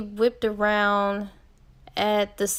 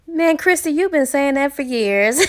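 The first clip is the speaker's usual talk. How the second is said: higher-pitched, lightly amused imitation of teasing; retold amused ribbing; 5 semitones higher, 4 dB louder than usual. Brother teasing his baby sister at her birthday gathering, retold with amusement. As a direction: imitate someone ribbing a sister, laugh just after. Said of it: "Clayton starts laughing. He says".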